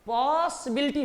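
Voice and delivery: "पॉसिबिलिटी" with a long पॉ, then the rest; sounding out. Shown as a demonstration. Teacher showing how it divides, "पॉसिबिलिटी" with held पॉ. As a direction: stretch the opening पॉ of "पॉसिबिलिटी". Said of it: "कैसे".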